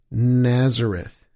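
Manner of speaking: "Nazareth" slow and low, sounding like "netzer"; a teacher letting the class hear "netzer" in "Nazareth"; echoing netzer. Shown as a demonstration. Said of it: "You hear the relationship".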